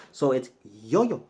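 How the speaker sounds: yo-yo with the stress on the final o, slowly; teacher showing the accent in yo-yo. Shown as a demonstration. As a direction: lean on the last o of yo-yo. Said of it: "It has an accent on the O".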